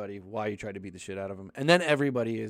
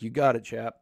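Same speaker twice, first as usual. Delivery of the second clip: mock English accent. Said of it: "English people trying to have a Boston accent".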